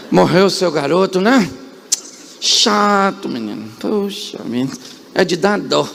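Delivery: offhand, shrugging condolence, starting slow; mock Jesus brushing off the grieving mother; careless indifferent comfort. Jesus imagined telling the crying widow not to cry, carelessly offhand. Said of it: "Jesus poderia falar pra ela assim".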